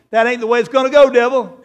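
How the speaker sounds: loud, defiant rebuke to the devil. Acted. Jesus rebukes the devil in the wilderness, loud and defiant. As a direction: face down the tempter loudly. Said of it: "And Jesus told him".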